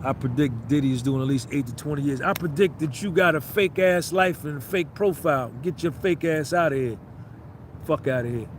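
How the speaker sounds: low, deadpan fortune-teller voice; lightly put-on prophet voice; mock psychic. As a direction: pronounce a prophecy in a low rumble. Mock psychic predictions to crowd member.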